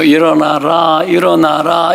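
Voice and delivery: slow, drawn-out wake-up call; morning wake-up nag. Retold or imitated. Parent waking the children in the morning, slow mild nagging. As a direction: stretch it out like a weary routine nag. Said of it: "아침부터 깨우는 것부터 시작해서".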